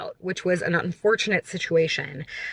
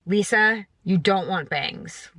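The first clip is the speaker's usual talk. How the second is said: self-scolding; slower than usual. Pretend. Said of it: "talking herself out of it".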